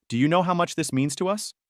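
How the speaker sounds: guilt-tripping question, lifted in pitch. A narrator's reading. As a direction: lay a mother's guilt trip on him. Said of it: "My mom tried to guilt trip him".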